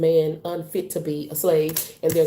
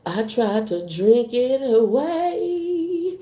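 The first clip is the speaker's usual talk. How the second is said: amused confession; 6 semitones higher, much slower than usual. Real, not acted. Self-mocking confession.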